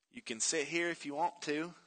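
softly imitated sweet, angelic girl. Jenny offering Forrest a bus seat, softly and sweetly. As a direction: offer it gently, a touch of sweetness. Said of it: "he heard the sweetest voice he had ever heard".

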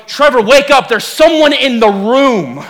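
imitated wife's alarm, slow and drawn out at the end; escalated warning. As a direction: heighten the warning, stretching the final words. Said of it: "the warning changes".

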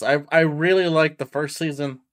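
talking through hiccups. Real, not acted. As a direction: hiccups breaking the words. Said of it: "all of a sudden I got the hiccups".

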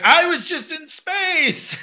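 high, drawn-out proclamation; slow, high-pitched retold exclamation; mock amazed boast. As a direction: announce it in hammed-up wonder. Crashed character announces his feat.

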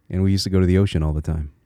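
quick line in a native Connecticut accent; old Connecticut accent. Shown as a demonstration. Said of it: "It's still there".

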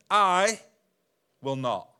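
proud refusal. Acted. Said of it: "see pride".

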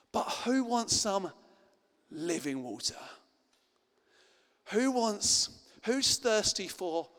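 Jesus calling out. Retold or imitated. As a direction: call out the offer to everyone. Jesus voiced calling to crowd.

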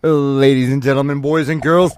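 booming ringmaster opening; loud announcer. Acted. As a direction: call out to the whole crowd. Host's loud show opening.

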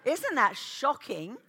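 lightly hammed-up preacher, loud; mock pompous delivery; playful preachy voice; funny voice. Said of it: "with a funny voice".

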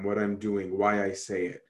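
normal talking voice

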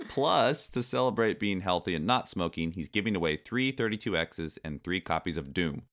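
animated article reading, punching the key words; lively magazine read-aloud. Acted. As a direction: read it out like a cheeky kids' magazine.

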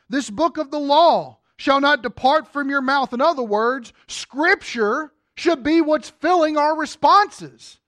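loud, driving sermon voice; fiery preaching. Acted. Pastor exhorting the congregation, loud and driving. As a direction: preach it hard and loud to the pews.

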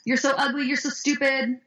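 high-pitched mock taunt; mean girl. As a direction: toss out insults like a bully. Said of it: "So they say something like".

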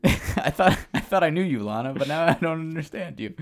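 high, hammed-up dismay; mock heartbreak. Imagining Aiden confronting Lana, mock heartbreak.

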